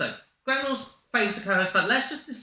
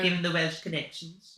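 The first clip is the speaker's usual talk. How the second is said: put-on Welsh accent; 3 dB quieter than usual. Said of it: "That was a poor attempt at a Welsh accent".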